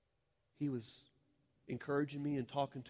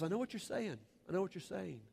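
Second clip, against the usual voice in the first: gently, lovingly; 5 semitones higher than usual. Retold or imitated. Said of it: "And very gently, very lovingly".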